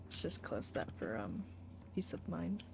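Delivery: muttered whisper. Real, not acted. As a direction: whisper to yourself. Player closing door.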